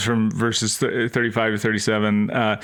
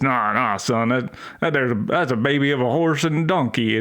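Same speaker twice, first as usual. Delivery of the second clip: put-on Southern dad accent. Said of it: "a real Southern dad".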